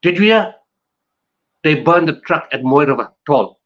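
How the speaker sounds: a hint of alarmed whispered news; anxious gossip. People in the province passing on unrest rumours, mildly alarmed. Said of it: "people started saying".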